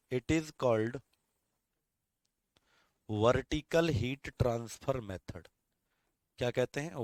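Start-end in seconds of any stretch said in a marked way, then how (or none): 3.1-5.5 very slow, word by word for note-taking; slow dictation. Shown as a demonstration. Teacher dictating notes to students, very slow and deliberate. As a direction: spell it out slowly so students can write.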